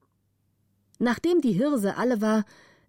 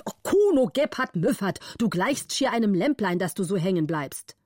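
angry count. Acted. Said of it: "war zornig und rief".

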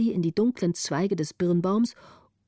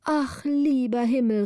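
lightly voiced old woman; 4 semitones higher than usual. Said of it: "rief sie".

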